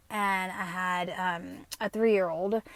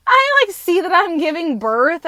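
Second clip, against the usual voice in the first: laughing; 8 semitones higher, 9 dB louder than usual. Real, not acted. Laughing while recounting vision.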